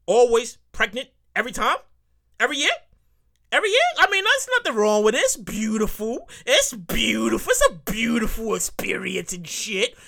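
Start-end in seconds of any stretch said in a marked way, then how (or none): 5.2-10.0 mock admiration. Mock praise of yearly pregnancies.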